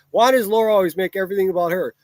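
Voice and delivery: mocking reread. Shown as a demonstration. Streamer mocking a viewer's comment by rereading it, sneering. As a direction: throw the comment back at them, scornfully. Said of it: "listen how fucking stupid your comment is".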